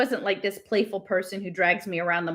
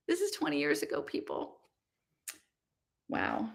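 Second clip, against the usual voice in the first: low, soft aside fading toward a whisper; hushed amazement; 4 semitones lower, 9 dB quieter than usual. Real, not acted. Reader marvels to listeners at an old book, hushed. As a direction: drop your voice in awe.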